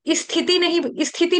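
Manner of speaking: wrong "isthiti" for स्थिति; an "i" stuck before the स of स्थिति; added vowel. Shown as a demonstration. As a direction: start स्थिति with an extra इ.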